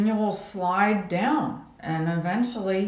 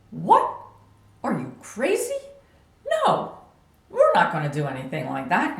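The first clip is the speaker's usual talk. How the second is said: indignant phone refusal. Retold or imitated. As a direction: shoot down a shocking offer.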